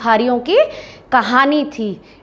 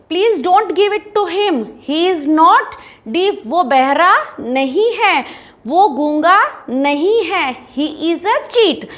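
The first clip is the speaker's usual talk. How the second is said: mild mock shout; 5 semitones higher, much slower than usual. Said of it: "वो एकदम से चिल्लाया".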